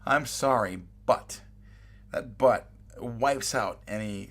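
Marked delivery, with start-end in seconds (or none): 0.1-1.4 but hit a little louder at the end; stress on but. Shown as a demonstration. Teacher flagging the word but in an apology, stress on but. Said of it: "the key word here to watch out for is but".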